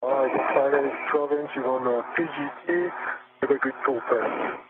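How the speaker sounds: muffled comm, words blurred; muffled radio voice. Real, not acted. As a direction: speak through a muffled headset mic. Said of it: "your comm is coming through muffled".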